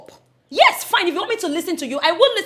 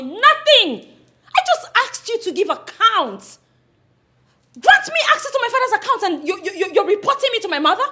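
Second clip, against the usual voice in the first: angry laughing protest; 7 semitones higher, 4 dB louder than usual. Acted. Daughter confronts uncle.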